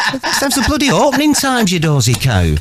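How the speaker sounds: high, laughing disbelief; exasperated outburst. Retold or imitated. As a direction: shriek at the dozy friend.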